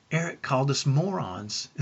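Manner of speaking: put-on lightly amused child's report; mildly gleeful imitation. Grinning twins telling dad days later, mildly gleeful. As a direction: say it as a giggly in-joke, understated. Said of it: "as they smiled ear, from ear to ear".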